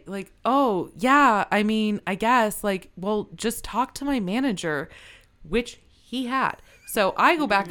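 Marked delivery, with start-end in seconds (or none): 0.5-4.9 lightly voiced owner. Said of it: "And Brian's like".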